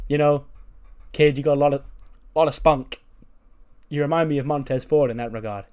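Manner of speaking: mild mock heel promo; tough champion's promo. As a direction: talk down to the kid like a champion. Retelling the wrestler Gunter's promo.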